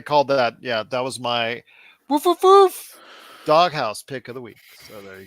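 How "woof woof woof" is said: high, loud mock barking; dog bark. Announcing the doghouse pick of the week, barking like a dog. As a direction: bark out three big cartoon woofs.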